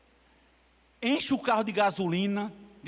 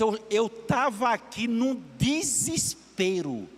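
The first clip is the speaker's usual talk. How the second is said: retold despair; slower than usual. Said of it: "Ela disse".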